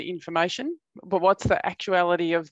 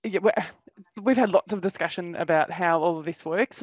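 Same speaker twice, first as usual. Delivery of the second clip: muffled behind a mask; talking through a face mask. Real, not acted. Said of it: "Excuse the mask".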